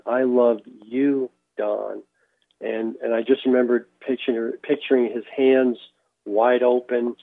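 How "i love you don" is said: slow, lightly tender retelling of a gentle voice; gentle, loving. Retold or imitated. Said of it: "It was a gentle, awesome, loving, kind voice".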